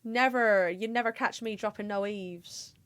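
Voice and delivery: lightly voiced West Country hobbit; understated West Country hobbit impression; Samwise Gamgee. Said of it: "my best Samwise Gamgee".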